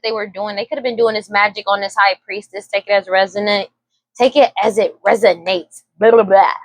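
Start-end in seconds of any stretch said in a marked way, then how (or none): 4.1-5.8 careful correction. Real, not acted. Tarot reader fixing a stumbled phrase, careful and deliberate. 6.0-6.5 quick tongue-tangled mumbo jumbo; mock your own stumbling with jumbled syllables; garbled babble. Real, not acted. Reader tripping over words, garbled self-mocking babble. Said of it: "I be talking so fast".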